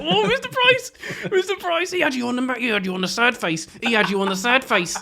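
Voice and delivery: high, gushing mock delight; hammed-up excitement. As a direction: ham it up for the kids, high and bright. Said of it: "I was really hamming it up".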